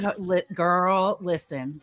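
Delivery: put-on slow, drawn-out Southern "girl, listen". Friend imitating her Southern grandma, slow drawn Tennessee "listen". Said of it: "I swear it's my grandmother".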